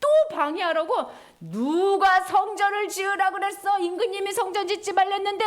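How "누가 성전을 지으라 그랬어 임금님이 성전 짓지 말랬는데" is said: mock yelling opponents. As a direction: demand who allowed it. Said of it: "막 소리를 지르는데".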